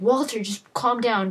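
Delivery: imitating an insistent plea; retold urging. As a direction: urge a panicking friend to settle, lightly acted. Retold pleading with panicking companion.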